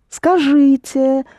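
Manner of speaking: Скажите said slowly and clearly, every syllable distinct; slow model word. Shown as a demonstration. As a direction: spell out Скажите slowly for a learner.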